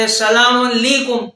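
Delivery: السلام علیکم slurred as "esalama nlikum"; sloppy greeting; careless salam. Shown as a demonstration. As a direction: blur السلام علیکم into one mumbled word. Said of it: "یا اس قسم کے اور جو کلمات ہیں".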